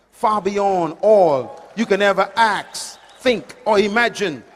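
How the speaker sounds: scripture recitation swelling to a loud finish; reciting scripture. Shown as a demonstration. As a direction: recite the verse, rising to full force. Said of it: "I'll never forget the statement".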